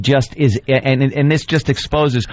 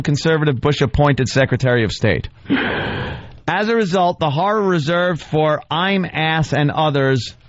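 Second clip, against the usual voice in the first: higher-pitched recital, piling up the adjectives; mock dramatic reading; 5 semitones higher than usual. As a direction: read it out with put-on grandeur. Reads the writer's piece mockingly.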